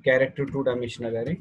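slow dictation with long pauses for students to write. Real, not acted. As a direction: read each phrase slowly for note-taking. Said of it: "चला लिहून काढा". (सावकाश लिहून घेण्यासाठी सांगणे)

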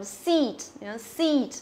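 "seat" with long ee, falling; careful model of "seat"; tense long vowel. Shown as a demonstration. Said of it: "chúng ta cũng phải đọc căng ra".

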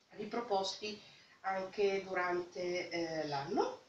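talking through a blocked nose; nasal, head-cold voice; stuffy nose. Real, not acted. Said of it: "scusate il mio naso". (naso chiuso dal raffreddore)

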